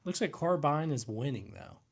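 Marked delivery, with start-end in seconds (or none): 0.3-0.9 "carbine" ending like mine; carbine as car-bine. Shown as a demonstration. Streamer reports which is winning, carbine as car-bine. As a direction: say "carbine" with a long i in the end. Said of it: "Uh, bine".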